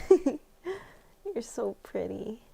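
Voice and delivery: put-on giggly drunk.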